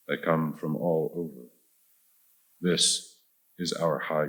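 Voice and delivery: measured verse reading with deliberate pauses; unhurried literary recital, phrase by phrase; poetry reading. Acted. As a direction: open each stanza firmly, then let it settle. Reads second poem aloud.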